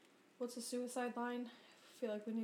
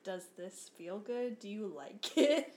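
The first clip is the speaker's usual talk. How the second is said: slow, drawn-out creepy question; mock the pedicurist's unsettling stare; creepy slow ask; 6 dB louder, slower than usual. Friend imitating the pedicurist asking her, slow and creepy.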